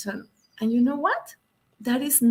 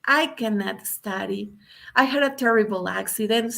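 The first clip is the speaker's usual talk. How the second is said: crying; 4 semitones higher than usual. Retold or imitated. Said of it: "And Jim started crying".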